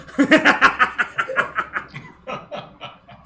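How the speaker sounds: loud, high-pitched burst of laughter; big laugh. Real, not acted. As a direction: burst out laughing, then let it tail off. Laughs at the player's remark.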